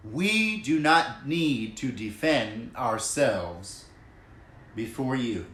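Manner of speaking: slow, spaced-out words, dropping soft on before you; slow emphatic repeat. Shown as a demonstration. Preacher repeating the verse, slow and weighty. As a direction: let it land slowly for the viewers. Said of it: "let me just say this again because this is so easy to miss".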